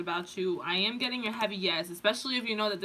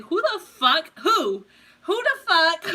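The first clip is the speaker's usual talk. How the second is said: higher, louder mock outrage; outraged who the fuck; 7 semitones higher, 6 dB louder, slower than usual. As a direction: bark it like someone offended nobody asked them. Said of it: "they're just like".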